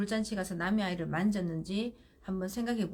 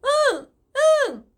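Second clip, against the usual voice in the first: imitated toddler yes; 13 dB louder, slower than usual. Toddler answers mom while crying.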